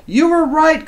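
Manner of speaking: high, loud happy call; father calling out. Acted. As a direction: shout it proudly to your son. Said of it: "called his pop".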